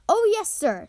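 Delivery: high, eager house elf; earnest elf. A narrator's reading. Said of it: "said Dobby earnestly".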